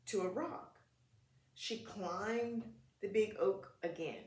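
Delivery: put-on gentle read-aloud for kids; children's story narration; storybook reading. A narrator's reading. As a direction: read it like a picture book at story time.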